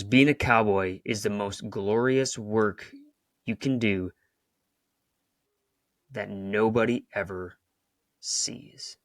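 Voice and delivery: put-on old cowboy's wisdom, slow, fading to a breath on the end; quoting the old cowboy, slow and earnest; slow, weighty quote. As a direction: lean into it slowly like wise advice. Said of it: "He goes".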